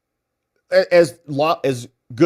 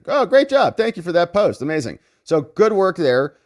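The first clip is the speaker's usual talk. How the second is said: high, mock-cheerful great job; sneering mock praise, pitched up; sarcastic praise; 5 semitones higher, 4 dB louder than usual. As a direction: fake applause for a lame post. Sarcastic praise of web post.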